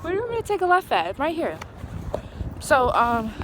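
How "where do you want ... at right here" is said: quick aside to driver. Real, not acted. Asking driver for directions.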